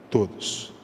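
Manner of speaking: preacher whispering todos to drive it home; whispered repeat. Shown as a demonstration. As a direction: whisper todos again, breathless and hushed.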